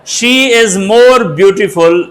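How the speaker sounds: very slow, word by word; teacher dictating an English sentence; slow dictation. Shown as a demonstration. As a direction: read the example slowly as if dictating. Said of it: "हम क्या लगाते हैं?".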